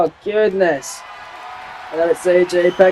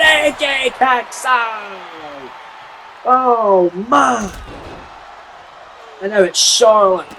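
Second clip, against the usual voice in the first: wrestling commentator. Real, not acted. Live wrestling play-by-play.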